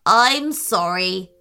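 a towering tree speaking slowly; tall tree voice. Acted. The tree answers from above.

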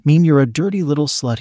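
a light touch of contempt, barely acted; lightly voiced, belittling sneer; degrading. Man belittling the woman on the desk, mildly degrading tone. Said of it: "he said, in a degrading manner".

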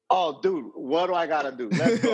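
rising, eager "let's go"; fired up, ready to jump in now; eager excitement. Retold or imitated. Newcomer telling his mentor he is all in, eager and fired up. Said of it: "I'm like".

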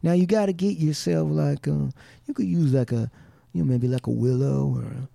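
lightly put-on Southern accent, easy and casual; a hint of a Southern good old boy accent, man to man; retelling a bow maker's Southern accent, only lightly voiced. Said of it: "he'd be talking like that, like one of them good old boys".

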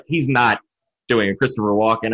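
low, doubtful replayed thought; retold disbelief. Replaying his doubt on first hearing.

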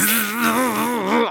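high buzzing mouth noise; imitated overload buzz.

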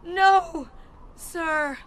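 high, loud, obedient cry; frightened reply. Acted.

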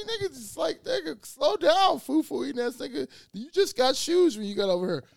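loud mocking rebuke; high mock scolding. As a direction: talk the driver down with exaggerated slowness. Telling the driver to calm down.

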